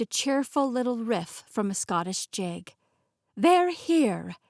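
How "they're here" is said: high, loud excited cry; delighted announcement. A narrator's reading. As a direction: announce guests with glee. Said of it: "Millie grinned and clapped her hands".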